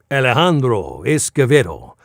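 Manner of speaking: "Alejandro Escovedo" in a lighter Spanish accent; toned-down Spanish accent. Shown as a demonstration. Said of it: "I had to really pull back".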